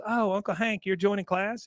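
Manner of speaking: high-pitched perky niece voice; acted girlish delight; pleasantly surprised. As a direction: chirp it as a delighted question. Luann greets her uncle, pleased.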